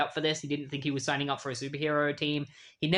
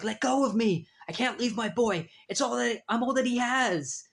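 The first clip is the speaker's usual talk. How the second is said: desperate father's plea; 8 semitones higher than usual. Retold or imitated. Father dragged away, pleading.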